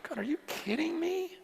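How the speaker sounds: high, breath-light whisper to God; hushed disbelief. Retold or imitated. Awed disbelief at his own life.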